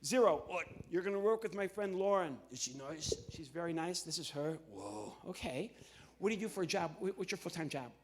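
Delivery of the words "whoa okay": low, soft puppet voice; a low puppet grunt of surprise. Acted. Ventriloquist's puppet reacting to Lauren.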